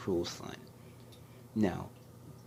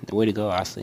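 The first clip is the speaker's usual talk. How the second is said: called out loud to a winning friend; loud congratulating yell; loud cheer; 2 semitones higher, 12 dB louder, much faster than usual. Retold or imitated. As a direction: shout your praise across the stage. Friend cheering after the win.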